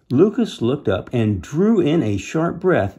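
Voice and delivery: animated read-aloud; story narration. A narrator's reading. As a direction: build suspense for young listeners.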